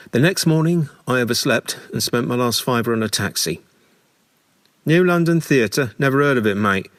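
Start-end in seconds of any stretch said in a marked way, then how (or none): 4.8-6.9 higher and louder, a puzzled London cabbie; baffled cabbie. Retold or imitated. Taxi driver to late passenger, baffled and a bit louder. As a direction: toss it back like a cabbie who's never heard of the place. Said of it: "The cabbie was baffled".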